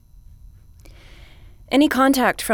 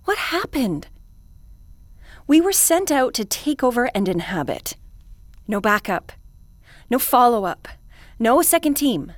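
rising distress; 5 semitones higher, 4 dB louder than usual. Acted. Commander protesting to the Envoy, rising panic. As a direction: voice climbing higher with mounting panic.

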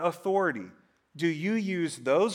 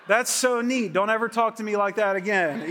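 laughing mock retort; 3 semitones higher than usual. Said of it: "And I was like".

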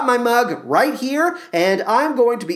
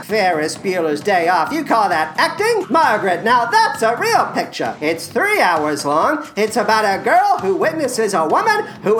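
a hammed-up, self-important star voice pitched higher; Matthew Broderick impression; 3 semitones higher than usual. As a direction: play a vain film star plugging coffee, lightly put on. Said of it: "for Matthew Broderick to do".

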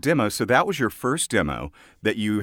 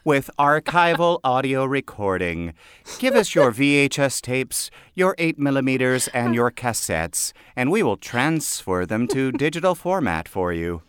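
mock ad read. Mock ad read for tape transfer.

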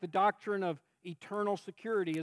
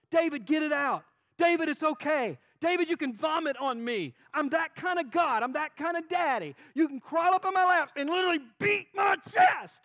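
God's reply; 6 semitones higher, 4 dB louder than usual. Acted. God answering David warmly.

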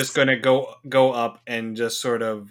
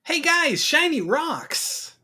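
very high, slow, delighted squeal; excited squeal; much slower than usual. Acted. Adventurer squealing to the party about shiny rocks. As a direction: gasp it out like a kid who found treasure.

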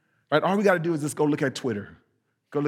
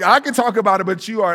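mock defensive retort; 3 semitones higher, 5 dB louder, faster than usual.

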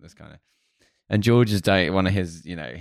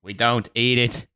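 raised, drawn-out mock certainty; perfect confidence; 5 semitones higher, slower than usual. George to the board about his Snickers, perfectly confident. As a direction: declare it slowly, building higher with total assurance. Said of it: "perfect confidence".

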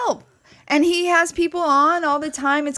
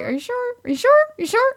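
repeated warning; 12 semitones higher, faster than usual. Retold or imitated. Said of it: "I was like".

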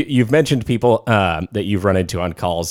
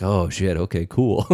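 soft laughing okay; laughing resignation; 4 dB quieter than usual. Retold or imitated. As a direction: laugh it off quietly.

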